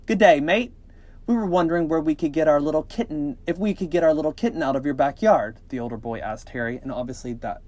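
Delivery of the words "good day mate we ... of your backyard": higher, lively attempt at an Australian accent; amateur Aussie greeting and request; bad Australian accent. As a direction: read the boy in a shaky-at-best Australian accent. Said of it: "an Australian accent. I cannot do it".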